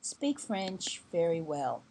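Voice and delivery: spoken slowly and carefully; slow explanation. Shown as a demonstration. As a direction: spell it out slowly for the learner. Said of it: "I don't".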